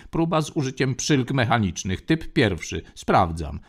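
even, mechanical machine read-out; autopilot voice. Acted. Ship autopilot reporting to Lando, mechanical voice. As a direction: announce each step like a ship's computer.

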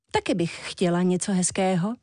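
ordinary delivery

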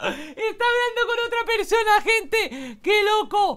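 very high-pitched excited squeal; shocked amazement. Real, not acted. Telling viewers of the twist, squealing in amazement. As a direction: squeal the news to viewers in disbelief.

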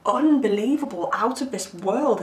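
halting, emphatic mock amazement; stuttering awe. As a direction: act lightly lost for words, pausing between phrases. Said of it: "like, stuttering 'cause they're just".

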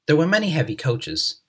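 ordinary delivery

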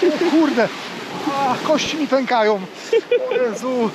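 gasping from the freezing sea; in ice cold water. Real, not acted. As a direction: cry out as the cold bites. Morsuje do kolan.

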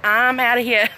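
says it through a laugh; laughing it off after a scare; half-laughing exit line. Real, not acted. Reacting to lightning strike.

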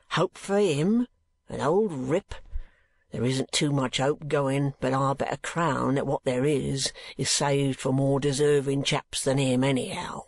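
slow rough-spoken keeper, lightly voiced; a plain working man, unhurried; lightly voiced asylum keeper. Keeper rants.

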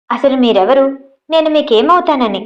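lightly acted rude challenge; rude retort. Nandu rudely confronting Abhi, lightly acted anger. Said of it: "దురుసుగా అడిగింది".

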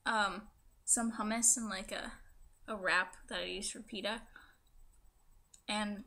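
speaking with a fresh tongue piercing. Real, not acted. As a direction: talk around a swollen pierced tongue. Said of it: "this is gonna be my tongue piercing video".

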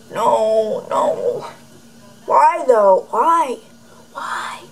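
fading from protest to a whisper; exasperated protest. Retold or imitated. Reacting to the girl's yeets, mock despair fading out. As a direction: plead why, then let it die to a whisper. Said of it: "I'm like".

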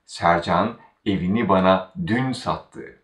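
dün made the focus before sattı; stress on dün. Shown as a demonstration. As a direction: put the weight on dün. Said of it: "Now we are focusing on the word".

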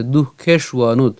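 দুঃখে সুয়ানুদ with breathed h after du, then shu-a-nud; pronunciation demo. Shown as a demonstration. Teacher shows how the verse begins, দুঃখে সুয়ানুদ sounded out carefully. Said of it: "উচ্চারণ কেমন হচ্ছে?".

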